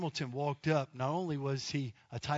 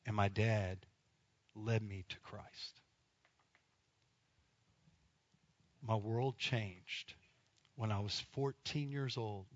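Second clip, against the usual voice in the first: slow sermon; 4 semitones lower, 4 dB quieter, slower than usual. Acted. Preacher's slow emotional climax.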